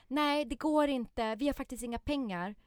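typical parent no. Retold or imitated. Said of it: "Jag säger aldrig".

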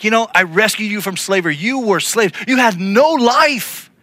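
a touch of wounded exasperation; exasperated God. Retold or imitated. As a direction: play God listing all he did, hurt and fed up. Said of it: "I wonder if he was like".

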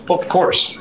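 high-pitched quoted comeback; Adam Jones. Retold or imitated. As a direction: toss it back high, lightly imitating a player. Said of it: "I'd get the Adam Jones look".

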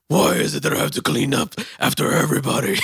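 high, loud nagging mom; mom impression. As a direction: whine it like an annoyed mom.

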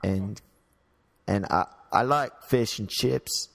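shaky attempt at a British accent; British accent that slips towards Australian. Shown as a demonstration. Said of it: "You sound Australian".

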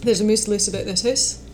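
rolled Scottish burr, quick; Scottish accent. Shown as a demonstration. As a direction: say it like a Glaswegian. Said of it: "famous Scottish phrase".

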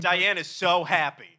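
slow mock announcement. Mock announcing his joy.

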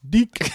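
Deke said with a hard D and a hard K. Shown as a demonstration. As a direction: say Deke as deek, hard consonants. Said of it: "with the hard".

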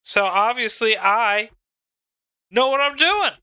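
Mitchy Richie in the ring. Acted. Mitchy Richie answers the Dom on the mic, promo voice. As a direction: address the crowd as a cocky wrestler.

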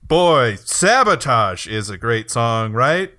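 slow, hammed-up bad acting. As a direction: deliver it badly, like a bad actor hinting. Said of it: "But he delivers it like".

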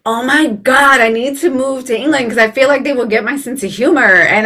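excited exclamation. Retold or imitated. Host imagining moving to England for her humor, excited. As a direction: gush it as a sudden big realization. Acts out excited urge to move.

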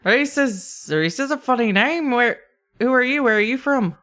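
high, lilting attempt at Scottish; kobold Scottish brogue. Kobold questions the lizardfolk, high Scottish lilt. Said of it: "Scottish brogue".

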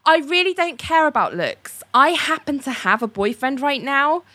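high, airy self-satisfied voice; mock Ali. Host mocking Ali about boyfriend's looks, airy voice. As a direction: act breezily oblivious. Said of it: "Or it's like".

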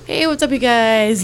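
high, loud YouTuber greeting; Shane Dawson. Retold or imitated. Co-host quoting a YouTuber's intro, high loud imitation. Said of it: "like Shane Dawson".

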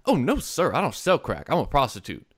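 matter-of-fact. Retold or imitated. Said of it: "matter-of-factly".

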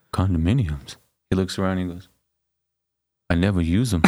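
lightly voiced dim boxer, puzzled. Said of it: "And Rocky goes".

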